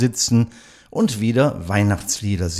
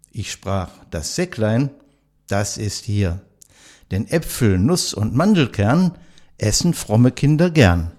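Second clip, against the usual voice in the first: poem recital. Acted. Host reciting a poem to nursing home residents, measured recital. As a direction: recite it like a classic holiday poem for listeners.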